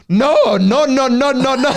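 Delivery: high, loud, far voice piling up no; mock owner frantically denying; flustered denial. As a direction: protest frantically in a funny voice. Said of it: "he'd be like".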